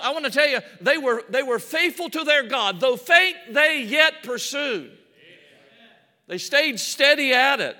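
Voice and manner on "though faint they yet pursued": proclaimed scripture. Real, not acted. Preacher quotes scripture with force.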